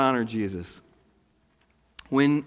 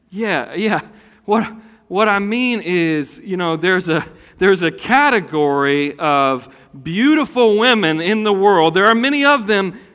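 flustered backpedal; 4 semitones higher, 6 dB louder than usual. Pretend.

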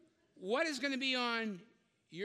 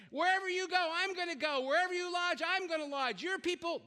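fervent preaching; 3 semitones higher than usual. Acted. Pastor preaching Ruth's vow.

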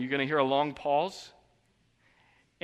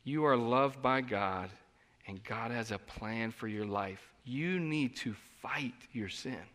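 softer, slower reassurance; tender counsel; 3 semitones lower, 5 dB quieter, slower than usual. Retold or imitated. Pastor counseling a struggling brother, tender. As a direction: gently tell him he is loved. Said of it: "I said something to him like".

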